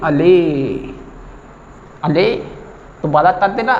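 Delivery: light mock lisp of a sleepy customer; lisping friend. Lisping customer yelps at the barber after the cut, mildly. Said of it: "तोतला मित्र था".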